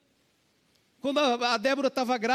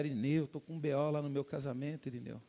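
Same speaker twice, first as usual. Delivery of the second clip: desabafo abatido; 10 semitones lower, 10 dB quieter than usual. Retold or imitated. Pastor desabafando com Irineu.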